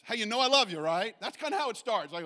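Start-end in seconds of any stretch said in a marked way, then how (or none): 0.0-1.1 louder, higher mock-sweet opener; butter him up before the criticism; Greg's gentle setup. Greg softening up his friend before correcting him, mock sweet. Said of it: "his mechanism is this".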